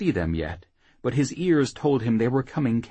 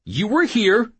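high, louder taunting echo; needling; 13 semitones higher, 6 dB louder than usual. Acted. Whoremaster echoing Jackal to taunt him, needling. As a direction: throw "you were here" back to goad him. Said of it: "Sancho needled".

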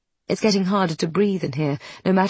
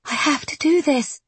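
firm authority; 9 semitones higher than usual. Acted. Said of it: "with an authority that surprises her".

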